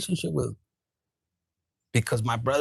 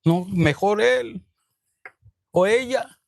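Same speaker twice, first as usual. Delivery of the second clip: doting mother; 5 semitones higher, 4 dB louder than usual. Retold or imitated. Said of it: "your parent likes".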